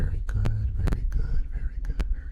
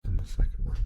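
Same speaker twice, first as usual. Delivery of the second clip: whisper in right ear; much faster than usual. Shown as a demonstration. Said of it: "second was in your right ear".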